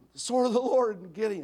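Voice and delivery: put-on battle shouting. Retelling soldiers in battle: imitating soldiers shouting. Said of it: "they're just shouting".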